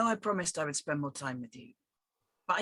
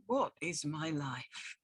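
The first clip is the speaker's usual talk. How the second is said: dramatic; 3 semitones lower, 4 dB quieter, slower than usual. Acted. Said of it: "don't be so dramatic".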